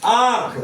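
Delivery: आँख with its first vowel through nose and mouth; nasalized vowel. Shown as a demonstration. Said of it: "नाक और मुंह से होता है". (आँख का आ नाक और मुंह से)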